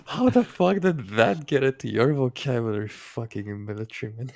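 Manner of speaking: mock outburst at a military man's word choice, loud; incredulous outburst. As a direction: demand an answer, loud and amazed. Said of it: "And I'm like".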